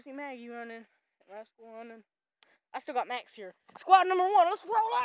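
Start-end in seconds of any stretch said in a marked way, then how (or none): 3.8-4.9 very loud, high rallying shout; full-volume call across the farm; commanding holler. Real, not acted. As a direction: bellow the squad into motion. Calling the animals to move.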